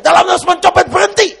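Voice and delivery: fast, high, loud yell; imitated shouted command. Pastor shouting at the fleeing pickpocket, imitated shout. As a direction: yell the order in one quick burst. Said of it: "waktu dia teriak".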